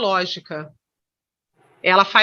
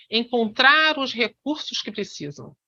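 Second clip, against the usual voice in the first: "encontrar os recursos que precisam" lightly set apart from the sentence; emphasised embedded phrase. Shown as a demonstration. Teacher repeating the phrase he marked, lightly emphasising "encontrar os recursos que precisam". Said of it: "Eu, eu tô enfatizando".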